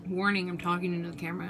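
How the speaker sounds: chewing while talking; quick words round a bite; mouth full. Real, not acted. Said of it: "I'm eating at the same time".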